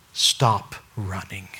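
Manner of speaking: slow, hushed plea; slow whisper. Acted. Preacher urging listeners, slow whisper. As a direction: whisper it slowly, pleading.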